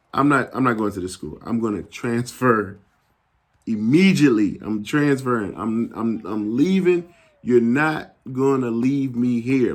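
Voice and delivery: retold refusal, pressing key words; insistent protest. Son telling mom he is transferring right away, insistent protest. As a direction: dig in and refuse, mildly worked up.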